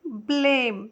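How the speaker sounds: ब्लेम said clearly as "blem", teacher modelling the word; model pronunciation. Shown as a demonstration. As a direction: pronounce ब्लेम as "blem" for the class. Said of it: "इसका pronunciation देखिए आ रहा है ब्लेम". (छात्रों को ब्लेम का साफ़ उच्चारण)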